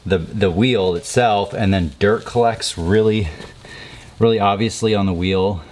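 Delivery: breathless from the heat; puffing between words, winded; out of breath. Real, not acted. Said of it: "sorry I'm out of breath".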